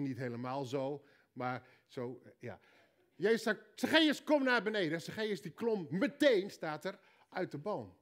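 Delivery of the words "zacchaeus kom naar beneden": calling out. Acted. Jesus calling Zacchaeus again.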